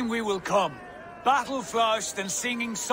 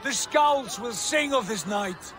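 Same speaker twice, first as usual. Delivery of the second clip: triumphant shout; 3 semitones higher than usual. Acted. Brother exulting to Eivor after the battle, shouting. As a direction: crow over the win.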